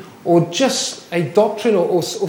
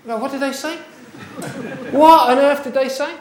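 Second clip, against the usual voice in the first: confused asking; 9 semitones higher than usual. Retold or imitated. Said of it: "you're going".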